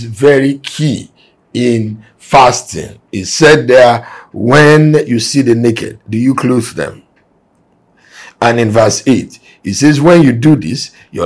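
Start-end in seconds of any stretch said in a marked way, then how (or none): 4.3-7.0 slow, deliberate, ending as a question; slowed-down rhetorical question; slow pointed question. Shown as a demonstration. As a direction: drag it out so the listeners feel asked. Rereads verse as a question.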